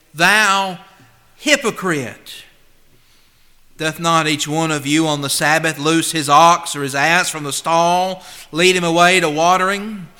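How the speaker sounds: preacher reading with force; scripture reading. Acted. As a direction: read Jesus' rebuke with force. Reads Jesus' rebuke from Luke.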